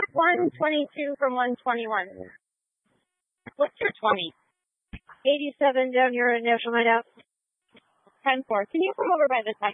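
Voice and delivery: crackly police radio voice; radio dispatcher chatter. Real, not acted. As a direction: talk like over a squad radio. Police radio scanner traffic.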